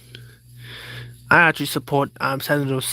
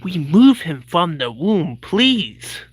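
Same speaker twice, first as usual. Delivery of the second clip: pleading; 3 semitones higher, 3 dB louder, slower than usual. Acted. Closing statement plea.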